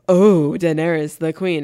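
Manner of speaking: sarcastic mock reverence, drawn out; a slow, mocking "oh, Daenerys". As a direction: sneer at her title with fake awe. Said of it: "he's making fun of her".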